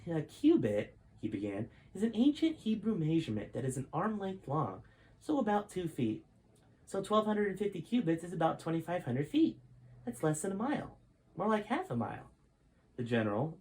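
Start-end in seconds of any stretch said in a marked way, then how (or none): 0.1-1.0 put-on smug kid voice. Jason explains condescendingly. 1.9-12.3 put-on much higher, know-it-all boy explaining; condescending kid. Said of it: "smiled a bit condescendingly".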